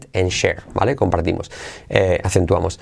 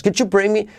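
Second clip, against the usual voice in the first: "Could you bring me" lifted high with a rising tune; 9 semitones higher than usual. Shown as a demonstration. Teacher showing students the tune of a polite request. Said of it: "entonación, hey".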